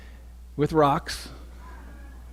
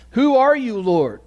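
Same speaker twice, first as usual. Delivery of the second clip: high, loud cry of a stunned man; 9 semitones higher, 6 dB louder than usual. Acted. Paul struck down on the road, calling loud and high. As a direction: call out Who are you, Lord, shaken.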